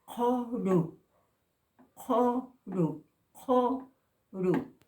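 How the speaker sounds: CORU with a breathy rasp from the back of the throat on the c; aspirated Q. Shown as a demonstration. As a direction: push air through the first sound of CORU. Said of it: "con la H".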